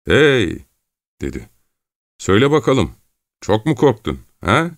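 smiling. A narrator's reading. Çelkaş asks the frightened rower how he is, smiling. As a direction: ask it lightly with a smile, pitch lifted. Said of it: "Gülümseyerek".

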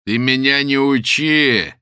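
loud, slow menacing growl. Acted. The man threatens the old woman, menacing. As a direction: threaten her. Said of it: "грозным голосом сказал человек".

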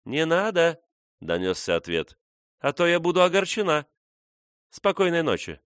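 put-on a playful young woman's reply; lightly voiced young woman. A narrator's reading. Woman's voice answering back.

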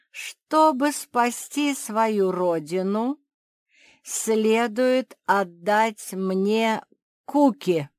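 very slow, drawn-out, weighty; slow sly demand. Acted. The ant demands Kuki from Mafi, very slow. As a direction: spell out the trap slowly. Ant sets trap slowly.

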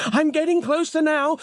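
very high, excited panting voice; panted. A narrator's reading. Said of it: "Samantha panted five minutes later".

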